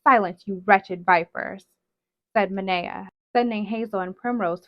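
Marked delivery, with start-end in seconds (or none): 0.0-1.7 loud scornful scolding; contemptuous. Acted. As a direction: spit the insult with contempt. Witch scolds daughters.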